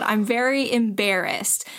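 slow, deliberate retold confession; embarrassed admission. Woman admitting it to the man she can't look at, slow embarrassed admission. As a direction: spell it out slowly, mildly awkward.

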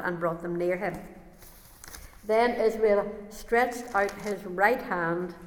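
measured, deliberate Bible reading; scripture reading. Acted. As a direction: read the verses out firmly to a congregation. Reads Bible passage aloud.

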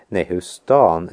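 normal talking voice

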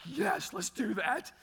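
the flesh urging a sneaky return of the broken item; tempting flesh. Retold or imitated. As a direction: play the greedy inner voice cajoling. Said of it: "And my flesh is like".

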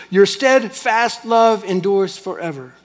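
slow, repeated in the same tune; monotonous refrain. Shown as a demonstration. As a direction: drone it like a litany. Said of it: "maddening monotonous".

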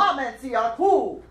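projected African-voice chant; put-on African call. Shown as a demonstration. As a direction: lead the chant in an imitated African voice. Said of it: "say it with your African voice".

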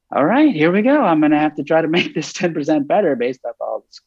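high, fast and eager; a little tap dance of excitement; excited. Retold or imitated. Tap dancing at the end.

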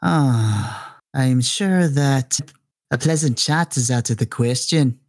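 drawn-out, theatrical villain voice; lightly voiced menacing patriarch; villainous grandfather. Villain rebuffed by his defiant son, theatrically unhurried.

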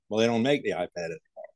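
quick reply in a tried-on Aussie accent; Aussie "iPad" standing in for iPod, brisk; attempted Australian accent. Shown as a demonstration. American guest playing the confused seller, quick attempted Australian accent. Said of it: "I try to do it".

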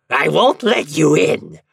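high, loud devilish shouting; prince's shout. A narrator's reading. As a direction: drive the visitor off at full voice. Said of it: "shouted the prince of hell".

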